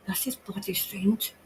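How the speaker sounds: hushed, baffled murmur; whispered. Real, not acted. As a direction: whisper it in disbelief. Medium puzzled at reading.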